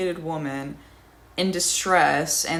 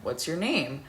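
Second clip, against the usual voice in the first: cool, even and a little quieter; very calmly; 3 dB quieter than usual. Retold or imitated. Roommate calmly asking the bouncer his name, quiet and even. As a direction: ask it with deliberate calm. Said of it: "very calmly".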